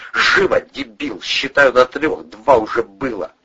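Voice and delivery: loud, slow, high-pitched command; bully him with a drawn-out countdown; angry threat. A narrator's reading.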